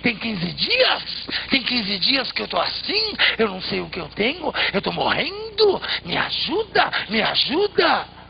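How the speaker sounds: high, loud desperate wolf begging. A narrator's reading. Dying wolf begs the passing man, high and loud. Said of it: "o lobo dizia mais alto".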